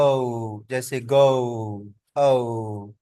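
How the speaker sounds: ओ held long, gliding to a rounded close; slow falling ओ, drawn out in गो too; diphthong demo. Shown as a demonstration. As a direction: model the ओ glide for learners. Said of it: "इसके बाद next हमारे पास है जी".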